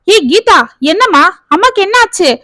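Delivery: snatching the phone in a panic; panicked. Acted. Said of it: "என்று பதற". (பதற்றத்துடன், உயர்ந்த குரலில்)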